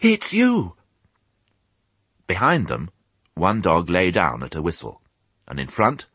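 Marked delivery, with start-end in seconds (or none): 0.0-0.8 very high, breathless piglet voice; breathless cry. A narrator's reading. Piglet recognises old sheep while running, breathless cry. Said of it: "he cried breathlessly".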